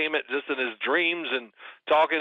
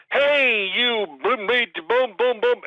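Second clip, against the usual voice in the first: higher, punchy mock rant; imitating brother's tirade; 7 semitones higher, slower than usual. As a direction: fire off the brother's swearing burst. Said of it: "he's gonna pick it up and go".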